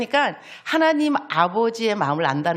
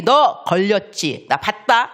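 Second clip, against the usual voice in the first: caught you; 5 dB louder, slower than usual. Pretend. Voicing God catching a sinner.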